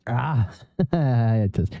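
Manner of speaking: real laugh at a stumble; amused laugh. Real, not acted. Reader stuck on a word mid-sentence, laughing. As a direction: break off reading into a slow, laughing aside.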